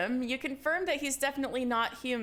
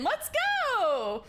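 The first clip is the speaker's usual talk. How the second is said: excited cheer; 9 semitones higher than usual. Real, not acted. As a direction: celebrate like a win. Cheering after alien encounter.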